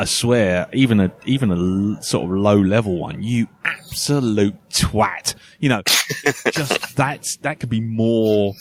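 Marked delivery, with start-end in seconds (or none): 3.2-5.3 slow, each word of You absolute twat leaned on; punctuated insult. Shown as a demonstration. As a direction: spell out the insult slowly to punctuate it. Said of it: "put some real emotion behind it to just really punctuate it".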